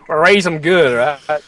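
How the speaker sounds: slipping into an American accent; folksy phrase in an American accent. Real, not acted. Co-host joking about child labour, American accent. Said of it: "That sounded very American".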